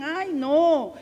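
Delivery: mocking prissy voice, pitched high, whining the name; preacher mocks sanctimonious voices, high and whiny; whiny little voice. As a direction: imitate the churchy little voices whining Jesús. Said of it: "esas vocecitas que por ahí tú escuchas que te dicen".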